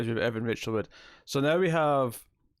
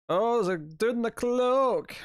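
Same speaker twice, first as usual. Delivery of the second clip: high, slow surprised call; 11 semitones higher, slower than usual. Real, not acted. Startled reaction to movie scene.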